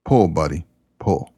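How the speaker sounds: casual, unhurried call at normal pitch; nonchalant. Retold or imitated. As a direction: toss it off calmly, no push at all. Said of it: "the farmer nonchalantly said".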